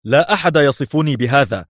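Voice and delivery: high-pitched, tense protest; strained indignant call; tense shout. A narrator's reading. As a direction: cry out, wound up and offended. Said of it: "صاح الرجل في توتر".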